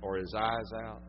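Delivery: hushed preaching. Acted. Preacher telling folks how Peter wept, hushed and soft. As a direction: drop to a near hush over the grief.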